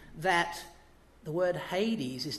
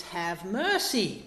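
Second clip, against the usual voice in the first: pleading; much slower than usual. Retold or imitated. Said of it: "what he says is".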